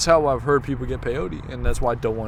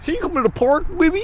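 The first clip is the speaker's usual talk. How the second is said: pitched-up put-on LA voice; mock LA accent; 3 dB louder, faster than usual. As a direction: imitate a Valley kid faking LA. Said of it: "them imitating people".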